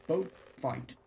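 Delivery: a lightly dramatic pulp-thriller reading; story narration. Acted. Streamer reads the Dirk Warhard novel aloud as mock thriller narration. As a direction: read it like an action paperback, mock serious.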